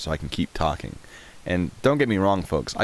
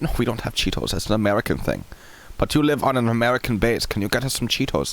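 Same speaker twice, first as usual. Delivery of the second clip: insistent, higher German-accented imitation; mock German accent; 6 semitones higher than usual. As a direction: plead like a caricatured German asking a favor. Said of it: "That's probably a really offensive accent".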